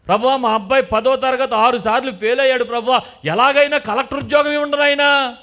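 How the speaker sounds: mock begging parent praying for a collector's job; mock pleading prayer. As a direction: beg God for the impossible, hammed-up. Mocks an unreasonable parent's prayer.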